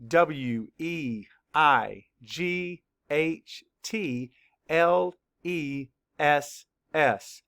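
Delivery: "E I G H T Y" spelled slowly, letter by letter; slow spelling. Shown as a demonstration. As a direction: spell each letter slowly for young learners. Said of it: "Spell it".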